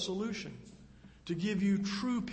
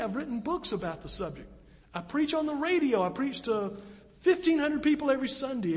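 rising, pleading voice of a shaken pastor; hint of despair, climbing higher at the end; pastor's anguished doubt; 5 semitones higher than usual. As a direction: ask it like a man in a hospital bed. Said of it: "And he said, Guess what I thought".

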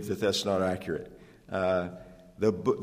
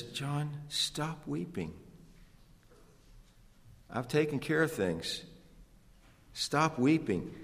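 gentle elder's rebuke; 4 semitones higher, 8 dB quieter than usual. Acted. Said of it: "rebuked by one of the elders".

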